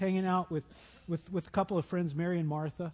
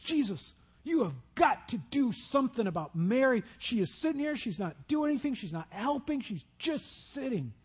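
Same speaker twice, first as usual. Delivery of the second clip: mildly exasperated complaint; 4 semitones higher than usual. Retold or imitated. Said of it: "she finally has had it".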